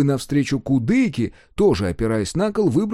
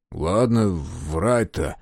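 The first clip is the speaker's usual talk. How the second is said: grumbling angrily; 5 semitones lower, much slower than usual. Acted. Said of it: "буркнул он сердито".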